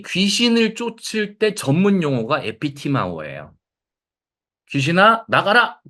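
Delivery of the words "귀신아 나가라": exorcism command. Retold or imitated.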